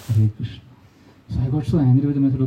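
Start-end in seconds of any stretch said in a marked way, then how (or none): 0.1-0.6 mock humble greeting. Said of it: "he would always be like this".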